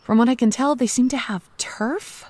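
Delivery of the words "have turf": hushed conspiratorial aside; whispering. Acted. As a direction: whisper it like a secret. Conspiratorial aside about robot gangs.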